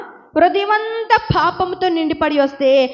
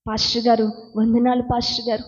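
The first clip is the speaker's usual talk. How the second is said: quick, acted polite greeting; two-faced greeting; faster than usual. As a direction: put on an outward show of respect, hurriedly. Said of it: "ఒక్కటేమో బయట పెట్టుకొని".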